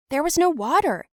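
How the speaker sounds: "There was no water." shouted high and loud, hitting "no"; angry retort. Retold or imitated. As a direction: snap back at the bully, loud and high.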